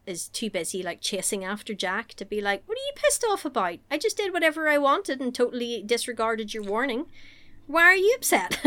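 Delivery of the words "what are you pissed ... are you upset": feigned innocence. Acted. Acts oblivious Lily asking Jack.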